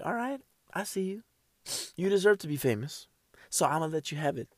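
a hint of an unimpressed critic won over; grudgingly impressed listener. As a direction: hand over the fame with a cool, hushed nod. Imagined impressed listener's verdict.

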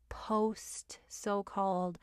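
slow conspiratorial whisper; whispered aside. Real, not acted. Whispering a sly aside about the pandemic, slow. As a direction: breathe it out like a secret.

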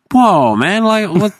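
high, loud mock disbelief with a laugh; retold incredulous whoa. To the guy taking the phone, a retold stunned whoa. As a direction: replay the shock at the thief, half laughing.

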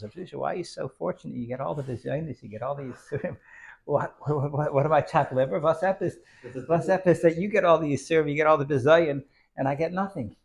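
high, excited envious complaint; complaining brother. Retold or imitated. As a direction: whine about missing out, half laughing.

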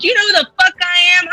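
put-on drunk indignant outburst. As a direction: fire it back, drunk and offended. Drunk Stephanie confronting the dude.

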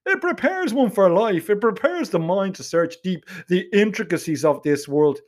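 lightly pompous Donnybrook student; a hint of lofty, condescending Donnybrook accent; smug Donnybrook accent. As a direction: hold forth in a mildly smug Donnybrook accent. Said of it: "in that smug Donnybrook accent of his".

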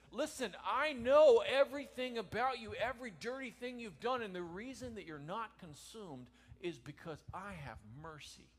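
loud, high preaching as God; God proclaiming mercy to the sinner, loud and high; booming voice of God. Acted. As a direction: thunder it out as God.

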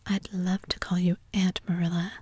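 ordinary delivery

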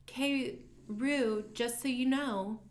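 high, slow, sugary sing-song; sweet sing-songy voice. Retold or imitated. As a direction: sing it sweetly like a harmless lady. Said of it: "in her sweet little sing-songy voice".

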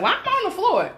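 laughing confusion. Retold or imitated.

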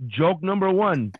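self-mocking awkward stage voice; stiff, unconversational comic. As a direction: announce each step laboriously, stretching the words. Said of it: "I am the exact".

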